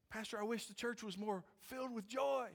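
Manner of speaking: high-pitched imitation of a church member; pleading to the pastor, high and put-on; mock complaining congregant.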